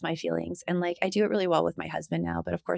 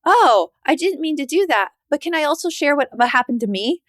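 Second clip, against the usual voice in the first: higher, louder, fake-sorry turn; self-centered friend; 7 semitones higher, 5 dB louder than usual. Toxic friend shifting focus, mock apologetic. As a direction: brush past it to talk about yourself. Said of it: "it's like".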